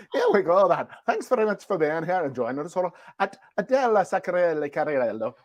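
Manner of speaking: playful put-on Irish accent. Host signing off with the guest in a mock Irish accent. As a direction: have a go at an Irish lilt. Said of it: "I'm gonna pick Irish".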